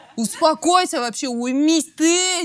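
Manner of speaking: mock furious, angry scolding outburst. Retelling what an overexcited woman said: imitating her angry outburst. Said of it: "прям бүйтіп ашуланып тұр да".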